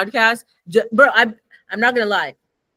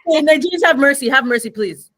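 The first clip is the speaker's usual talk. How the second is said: mock plea; 4 semitones higher, 4 dB louder than usual. Pleading call to Nigerian listeners.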